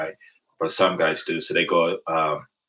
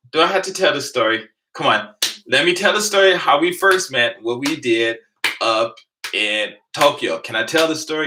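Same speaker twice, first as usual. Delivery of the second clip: playful pleading; 6 semitones higher than usual. Real, not acted. Pleading with a friend.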